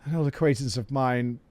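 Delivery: low, quiet adventurer voice; game adventurer. Acted. Adventurer announcing the course to airport, low solemn role. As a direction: speak low and measured, as a solemn hero.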